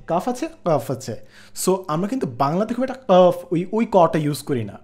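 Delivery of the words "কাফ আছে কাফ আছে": Arabic qaf; Arabic qaf demo. Shown as a demonstration. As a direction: say "কাফ" far back in the throat. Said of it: "অ্যারাবিকে যেরকম কাফ আছে".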